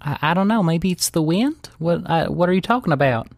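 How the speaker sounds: flustered Daisy. Acted. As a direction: stammer out an innocent excuse. Game master plays evasive Daisy.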